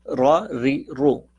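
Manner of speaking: रा said full and heavy, री thin and light, रो full again, slowly; slow demo: रा heavy and full-mouthed, री thin. Shown as a demonstration. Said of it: "फिर दोबारा सुन लें". (भारी रा, बारीक री, धीमे से)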